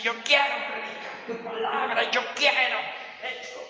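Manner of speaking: high-pitched imitation of an eager plea; acted, high-pitched begging; pleading prayer. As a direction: plead upward to Jesus, voice lifted. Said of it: "tener que decirle a Jesús".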